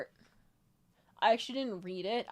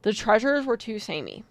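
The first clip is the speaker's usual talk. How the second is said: loud complaint; 15 dB louder than usual. Real, not acted.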